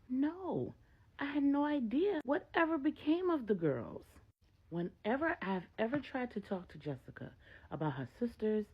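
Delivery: a bewildered mother pleading her ignorance; Maria's voice. Acted. Narrator voices Maria at length.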